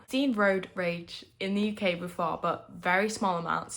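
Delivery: lisping through a retainer; words slurred by a retainer. Real, not acted. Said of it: "Excuse my lisp, I have retainers in".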